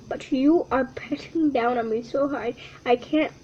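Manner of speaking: unvoiced, strained breath; squashed whisper. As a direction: speak as if crushed flat. Squirrel crushed under paw.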